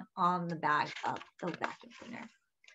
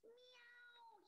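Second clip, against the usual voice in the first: happy meow; 13 semitones higher, 39 dB quieter than usual. A narrator's reading. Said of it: "he cried happily".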